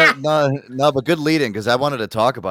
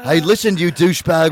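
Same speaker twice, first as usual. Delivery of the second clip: yelling chef; 3 semitones higher, 6 dB louder than usual. Pretend.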